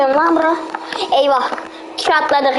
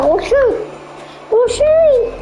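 rising panicked yells, higher each time; panicked shouting; 9 semitones higher, slower than usual. Real, not acted. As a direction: scream at your friends to run. Fleeing monster, calling out.

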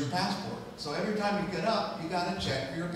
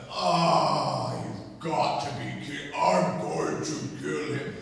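irritated dad; slower than usual. Retold or imitated. Dad woken by news of lost passport, irritated. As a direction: imitate a dad irritated out of sleep. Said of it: "irritated dad noise mode".

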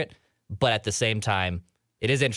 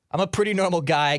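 emphatic; 9 semitones higher, 4 dB louder than usual. Real, not acted. Defending his quirk, voice jumps.

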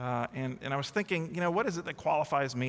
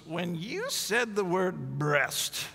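put-on slow, rising old lady voice building to a high, loud laugh; old lady telling it slowly, then high and loud; old woman voice; 6 semitones higher, 4 dB louder, slower than usual. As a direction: play the grandma savoring the memory, ending in a squeal. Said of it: "And she goes".

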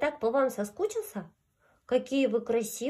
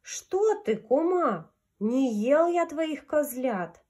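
wolf voice; 4 semitones higher, 4 dB louder, slower than usual. Acted. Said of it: "говорит козе".

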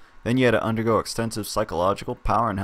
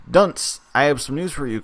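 loud, higher showman voice; talk show host; 5 semitones higher, 6 dB louder than usual. Acted. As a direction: play the slick TV host. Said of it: "Colton says".

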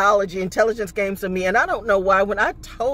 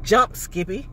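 shouted taunt; 2 semitones higher, slower than usual. Acted.

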